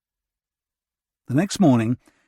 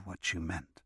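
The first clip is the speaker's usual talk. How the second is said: slow, hushed admission; whispered; 5 semitones lower, 15 dB quieter than usual. A narrator's reading. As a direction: say it slowly under the breath. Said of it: "she whispered".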